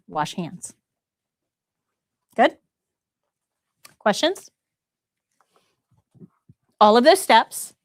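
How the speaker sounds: ordinary talk, nothing marked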